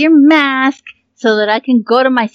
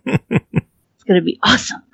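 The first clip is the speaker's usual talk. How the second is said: laughing. Real, not acted. Laughs through it.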